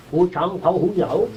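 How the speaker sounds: slow, singsong string of made-up sounds; mock foreign syllables. Lecturer imitating sounds a child picks up, slow mock syllables. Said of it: "you make a series of sounds".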